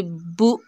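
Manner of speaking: बु cut short with a sharp jolt, slowed; jerked vowel. Shown as a demonstration. Teacher demonstrates the jerky wrong reading, jolted. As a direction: snap बु off abruptly as the mistake. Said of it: "झटका नहीं देंगे".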